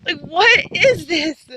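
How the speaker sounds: incredulous delighted cry, drawn out; excited, grinning disbelief. Retold or imitated. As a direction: replay the stunned joy of the moment. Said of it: "I had the biggest smile on my face".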